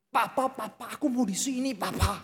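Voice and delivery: a lightly voiced whining child; child's voice. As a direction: tug at papa like a small kid. Preacher voices his pleading child.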